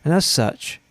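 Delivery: lightly put-on official statement, a little low; mock formal apology. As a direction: read out a solemn public disclaimer in jest. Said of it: "put out an apology now".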